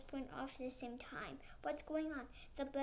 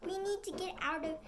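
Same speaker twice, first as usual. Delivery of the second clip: panicked yell; 3 semitones higher, 3 dB louder than usual. Acted. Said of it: "Penny yells in a panic".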